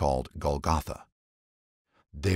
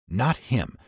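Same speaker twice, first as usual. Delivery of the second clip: crowd shouting; slower than usual. A narrator's reading. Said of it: "They shouted back".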